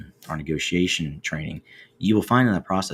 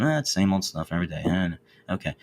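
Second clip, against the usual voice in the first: quick, uninterested mumble of a reply; bored meh; faster than usual. Retold or imitated. Asked how things are going, answering with an uninterested shrug. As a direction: brush it off like nothing's new. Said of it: "you hear in that tone".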